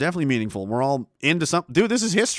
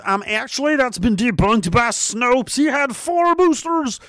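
high, slow smug correction; nerdy know-it-all voice; 8 semitones higher, 3 dB louder, slower than usual. Pretend. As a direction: play the smug fact-checker. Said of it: "why you read it in that voice".

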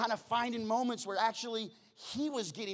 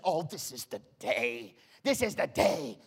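hopeful; 4 semitones lower, 5 dB louder than usual. Retold or imitated. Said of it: "and she said".

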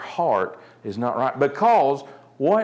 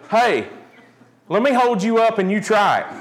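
lightly voiced eager kid, raised pitch; kid goading brother; 7 semitones higher, 3 dB louder than usual. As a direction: coax your brother into a dare, higher and a bit louder.

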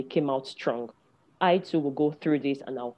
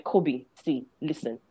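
self-talk in the mirror; 3 semitones lower, 5 dB quieter than usual. Retold or imitated. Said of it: "as if I'm talking to someone else".

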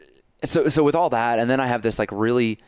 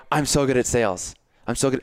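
higher and excited; 3 semitones higher than usual. Shown as a demonstration. Hyping himself up before a sales call, excited. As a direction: lift the voice up, pumped. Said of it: "my voice is getting higher and more excited".

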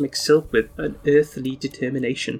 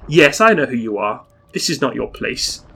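thundering anger; 5 dB louder than usual. Acted. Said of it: "Randolph thunders with anger".

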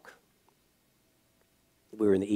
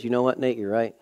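tender apology. Retold or imitated. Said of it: "So all I did was".

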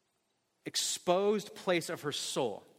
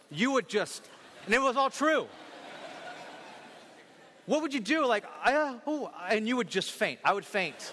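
excited; 5 semitones higher than usual. Real, not acted. Imagining shock of exposure.

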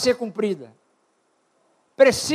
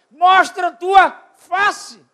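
voicing the Lord's call; 2 semitones higher, 4 dB louder, slower than usual. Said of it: "Ele fala assim".

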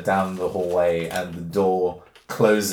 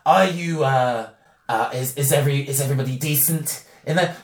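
gruff voice; 4 semitones higher than usual. Acted. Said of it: "a kind of gruff voice".

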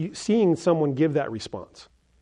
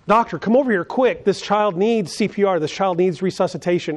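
higher and louder, urgently calling the doctor over; urgent call for help; 3 semitones higher, 3 dB louder than usual. Pretend. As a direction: call out fast for help as if a child is drowning. Calling the doctor to a drowning child.

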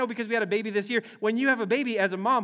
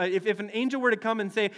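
ordinary talk

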